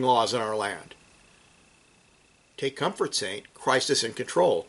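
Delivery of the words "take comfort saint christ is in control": gentle reassurance. Real, not acted. Preacher to persecuted saints, soft reassurance.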